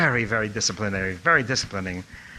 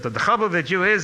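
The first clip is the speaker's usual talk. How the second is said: put-on high, loud Lithuanian-accented scolding; 7 semitones higher, 5 dB louder than usual. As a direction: imitate a rabbi's Lithuanian accent. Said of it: "in his Lithuanian accent".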